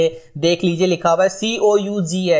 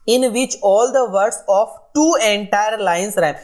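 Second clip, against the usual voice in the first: slow dictation; 3 semitones higher, much slower than usual. Shown as a demonstration. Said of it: "teacher reads definition slowly".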